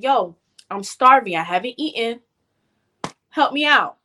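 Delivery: calmly asking for help; calm retold plea. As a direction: keep a retold appeal calm. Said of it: "I said it calmly".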